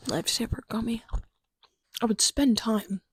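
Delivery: ASMR whisper. Real, not acted. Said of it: "Sorry for this A S M R".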